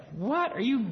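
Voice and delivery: shocked disbelief, pitch leaping up on what; imitating someone aghast at a cruel request; incredulous. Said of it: "you'd be like".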